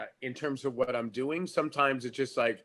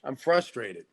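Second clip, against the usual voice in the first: acted argument. Shown as a demonstration. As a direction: pick a fight with your partner. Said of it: "That was free acting class".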